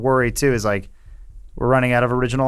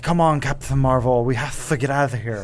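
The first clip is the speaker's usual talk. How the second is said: lispy Australian impression. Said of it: "It's Australian, but it's lispy".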